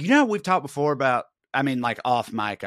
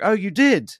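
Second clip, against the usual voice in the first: higher, louder mock surprise; 8 semitones higher, 6 dB louder than usual. Talk host reacting to his confession, mock surprise. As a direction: play the host's fake shock. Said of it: "he's like".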